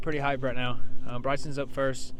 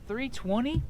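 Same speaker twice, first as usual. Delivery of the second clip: surprised question; 10 semitones higher, slower than usual. Real, not acted. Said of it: "Could you say that again?".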